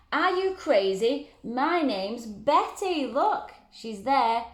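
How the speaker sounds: high, slow offended monster voice; indignant monster. Acted. Monster Betty scolding George, high slow indignant voice. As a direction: play the insulted monster Betty.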